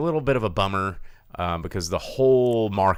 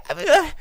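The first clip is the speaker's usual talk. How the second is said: mimicked scared noise; 8 dB louder than usual. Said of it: "you're just like".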